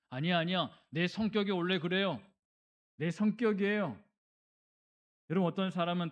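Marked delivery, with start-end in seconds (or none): 0.1-4.0 mildly heated self-defence; defensive insistence. Acted. Hot-tempered person answering complaints, mildly defensive insistence. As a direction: push back, a touch high and loud.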